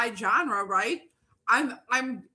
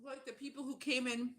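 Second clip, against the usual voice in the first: talking with a noodle in mouth; words round a mouthful; mouth full; 8 dB quieter than usual. Real, not acted. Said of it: "Sorry, I got a noodle in my mouth".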